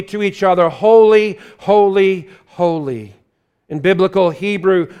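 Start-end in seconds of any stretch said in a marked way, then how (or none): 0.7-3.1 ringing, louder proclaimed cry, fading on the last; seraphim crying out. Acted. Seraphim crying holy to each other, ringing proclamation. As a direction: call it out like angels across the throne. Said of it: "The seraphim were crying out".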